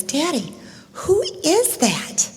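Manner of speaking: high, slow whisper of wonder; awestruck little boy. Retold or imitated. Little boy looking up at his daddy, hushed wonder. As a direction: whisper it like an amazed child. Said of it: "little boy with wonder in his eyes".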